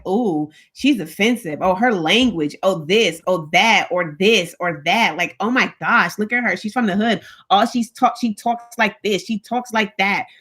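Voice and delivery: imitating fault-finders in a lilting list; mock judgmental. Church people picking apart a newcomer, mildly mocked judgment. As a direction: run through petty complaints in mild mockery. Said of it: "if you're always judging everything".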